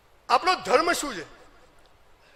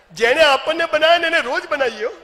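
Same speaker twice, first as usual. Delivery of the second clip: laughing punchline; 5 semitones higher, 5 dB louder than usual. Real, not acted. Joke about fooling God.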